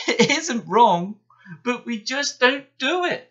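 mock Gordon's own words back; Henry chuckling at Gordon; chuckling mockery. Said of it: "chuckled Henry".

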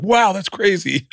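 high, drawn-out mock wonder; overdone amazement. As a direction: act far too impressed by small talk. Mock awkward amazement at hometown.

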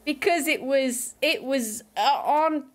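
effortful, badly faked Australian; Aussie accent. Streamer telling of bad TV accents, poor mock Aussie. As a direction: keep up a wobbly put-on Aussie while chatting. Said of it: "even worse than mine".

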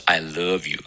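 love as "luhv", one syllable with a short uh; falling I love you, love clearly "luhv"; American vowel. Shown as a demonstration. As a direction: model I love you with a light uh in love. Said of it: "你注意他读的是".

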